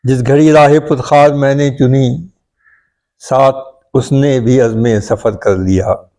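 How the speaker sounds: measured Urdu verse recital, opening line lifted; poetry recitation. Acted. Poet opens a requested ghazal for his friends, reciting. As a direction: recite the couplet, settling as it closes.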